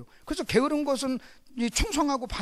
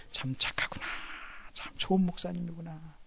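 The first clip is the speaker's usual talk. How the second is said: soft inner thought; 5 semitones lower, 10 dB quieter than usual. Retold or imitated. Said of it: "내가 이렇게".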